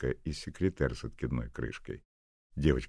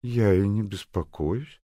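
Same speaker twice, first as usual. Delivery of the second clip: falsely said; 6 semitones higher, 7 dB louder, slower than usual. Acted. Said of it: "фальшиво сказала Наденька".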